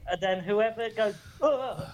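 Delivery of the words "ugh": short gasp for breath; gasp for air. Shown as a demonstration. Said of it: "like that".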